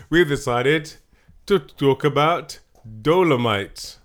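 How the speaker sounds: loud, slow, drawn-out hype; hype announcer. Pretend. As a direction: announce it like a movie trailer. Hyped intro of the episode's movie.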